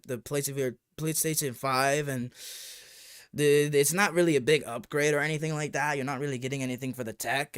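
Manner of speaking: a light put-on accent, mocking the guy; lightly voiced mock accent for the clueless YouTuber. Mocking a YouTuber asked about VR, light put-on accent. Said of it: "I'm adding the accent 'cause I think it's more fun".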